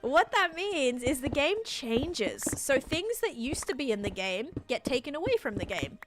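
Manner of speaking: put-on slow, over-deliberate, talking down to a child; mock-patient lecture to a confused viewer, slow; patronizing slow explanation. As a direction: spell it out slowly like to a kid who won't get it. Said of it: "this is the last time I'm gonna explain it to you".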